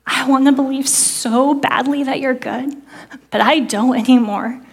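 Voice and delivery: understated heartbroken prayer; crying out to God. Retold or imitated. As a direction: lightly relive the desperate plea. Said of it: "And I cry out to God".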